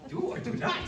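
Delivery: squeaky high little-creature voice; Yoda. Retold or imitated. Preacher tries a Yoda impression for the congregation, squeaky high voice. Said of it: "I'm a horrible Yoda impression".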